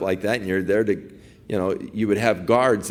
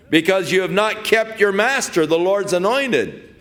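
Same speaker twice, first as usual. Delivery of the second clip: calling out; 8 semitones higher than usual. Retold or imitated. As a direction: call across the hills to shame the guard. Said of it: "Who are you that cries to the king".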